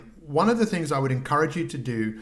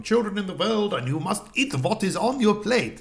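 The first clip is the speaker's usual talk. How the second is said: put-on German accent, high and stern; stern German-accented parent; 7 semitones higher than usual. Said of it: "I'm talking in a German accent there".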